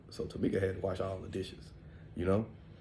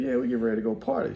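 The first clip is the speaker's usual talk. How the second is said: much higher, fast mock reply; uncle's reply; 13 semitones higher, 4 dB louder, faster than usual. Uncle answering grandma about partying, high. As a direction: toss it off quick and high. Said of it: "I said".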